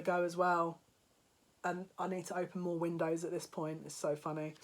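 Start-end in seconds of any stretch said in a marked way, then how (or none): 1.6-4.5 much softer, half to herself; soft amused aside; quiet aside. Real, not acted. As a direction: mutter it, amused. Softly to herself laughing.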